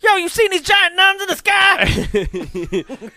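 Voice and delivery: high, loud and slow goofy vendor. Pretend. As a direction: squeal it like a dopey vendor. Improvised bit, vendor character.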